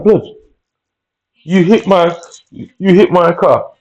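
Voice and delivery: high-pitched indignant protest, slowed on the repeat; outraged retort. Retold or imitated. To the driver who hit his car, high indignant protest. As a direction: throw the accusation back at him in disbelief. Retold row after the crash.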